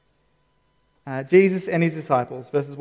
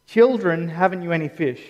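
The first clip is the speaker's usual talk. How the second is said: tender, relational. Shown as a demonstration. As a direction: say it as to treasured kids. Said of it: "It's actually deeply relational".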